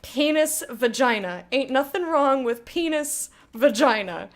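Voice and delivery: loud, insistent word by word; emphatic lecture. Real, not acted. Streamer insisting to chat on proper anatomy words, loud. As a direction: drill the words in firmly.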